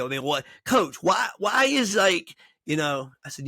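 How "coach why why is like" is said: mock protest. Upset player questions his coach.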